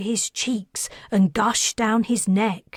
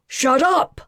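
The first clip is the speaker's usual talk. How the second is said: higher, loud furious scream; snapping at his crying child; 6 semitones higher, 5 dB louder than usual. Acted. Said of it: "her father screamed".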